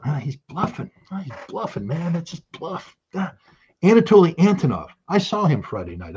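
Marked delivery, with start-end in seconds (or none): 0.0-3.3 mock dismissive. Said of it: "And they still went".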